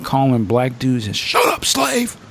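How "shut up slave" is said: high, slow mock sneer; imitating racist rant. Retelling a racist suit's rant, mock sneer high and slow. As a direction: ham up the ranting bigot, slowly. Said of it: "he's, like".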